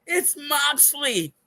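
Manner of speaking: put-on high, slow kid voice reveal; kid's reveal. Son revealing the surprise guest, high and slow. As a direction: draw it out high like the excited kid. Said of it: "He goes".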